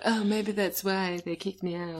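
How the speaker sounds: put-on slow, soft Valley Girl drawl; slow breathy Valley Girl drawl. Shown as a demonstration. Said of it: "so you do her".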